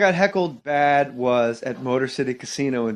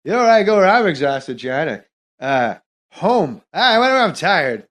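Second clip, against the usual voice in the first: lightly voiced rambling deadpan Norm; Norm Macdonald impression. Comic on stage doing Norm rambling about exhaustion, light impression. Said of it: "I was doing Norm Macdonald".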